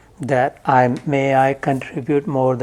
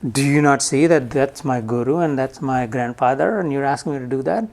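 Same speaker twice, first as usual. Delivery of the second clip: incredulous Arjun. Retold or imitated. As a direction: protest in disbelief, voice pitched up. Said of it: "He even questioned Krishna".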